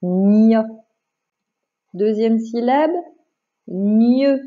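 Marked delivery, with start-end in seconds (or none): 0.0-0.6 loud, deliberate dictated syllable; drawn-out syllable for a pupil to write; dictation. Shown as a demonstration. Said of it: "Je répète". 3.7-4.4 deliberate, held syllable; drawn-out syllable for a pupil to write; dictation. Shown as a demonstration. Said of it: "je vais te faire une dictée de syllabes".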